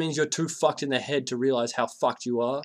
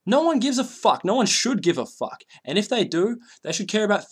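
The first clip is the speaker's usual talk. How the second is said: raised voice; 7 semitones higher, 3 dB louder than usual. Real, not acted. Rant keeps yelling.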